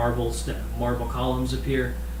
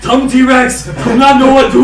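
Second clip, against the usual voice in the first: loud, high dumb caveman talk; 11 semitones higher, 13 dB louder, slower than usual. Pretend. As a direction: bellow it like a dim brute. Caveman talk for Tom the T-Rex.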